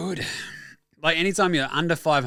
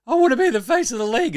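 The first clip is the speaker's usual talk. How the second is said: mocking Tatum; 11 semitones higher, 5 dB louder, faster than usual. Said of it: "the Jason Tatum debate that is raging".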